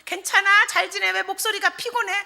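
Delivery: high, lilting daughter on the phone; caring daughter. Acted. Daughter rings mum to ask after her, concerned. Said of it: "그 딸이 웬일로 한가하게 전화를 해가지고".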